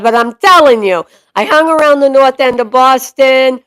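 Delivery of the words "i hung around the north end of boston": Boston-accented storytelling. Shown as a demonstration. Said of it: "do this with the Boston accent".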